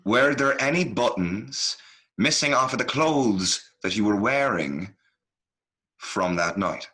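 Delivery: slow, spaced-out question; measured, careful interrogation; deliberate repeat. Acted. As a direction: repeat it slowly, phrase by phrase. Repeats question after a baffled "What?.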